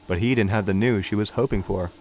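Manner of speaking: usual speaking voice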